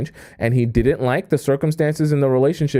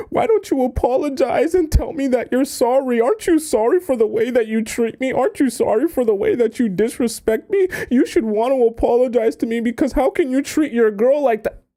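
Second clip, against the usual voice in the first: high, whiny pleading voice, much higher than her own; whiny begging girlfriend; 11 semitones higher than usual. Retold or imitated. Girlfriend begging boyfriend for an apology, high whiny plea. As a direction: beg him like a desperate girlfriend. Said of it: "you're begging and pleading him".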